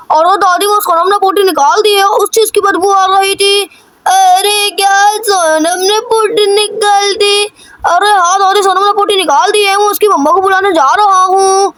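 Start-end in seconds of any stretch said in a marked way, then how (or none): 4.1-7.4 slow, drawn-out grandmother's voice; slow old granny. Acted. Granny calling Chintu about the bad smell, slow and drawn out. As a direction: stretch each word like a fussing old granny.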